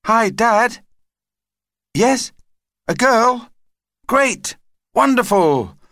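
put-on high, thrilled child on the phone; excited child. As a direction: react with bursts of delight, pitched right up. Child hears of baby sister.

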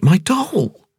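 high, slow woman's voice, amazed; dazed wonder at meeting him; young woman Ping. A narrator's reading. Ping to Cavalier after the crash, high slow amazed voice.

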